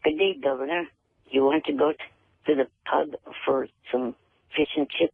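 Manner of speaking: half-hearted British accent, near his own voice; halting attempt at a British accent. Shown as a demonstration. Guest showing the host his British accent, halting British accent. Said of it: "do a British accent like you were asking".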